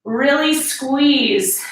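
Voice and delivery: slow, drawn-out squeeze cue; gym coach. Acted. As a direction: stretch it out to time the rep. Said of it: "instructor cueing an exercise".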